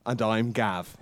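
a hint of a Welsh accent. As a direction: say it in a light Welsh lilt. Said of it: "that's my Welsh accent".

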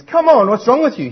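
high, loud mocking taunt; scornful coworker. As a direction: jeer at him like a bully. Coworker mocking man saying grace.

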